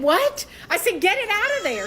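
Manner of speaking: retold panic; panicked demand. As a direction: beg him to undo it. Demanding husband retrieve license.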